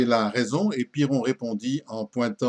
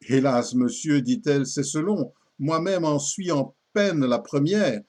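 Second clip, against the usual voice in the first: poem recitation; 2 semitones higher than usual. Acted. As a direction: recite the judge and the woman's exchange theatrically.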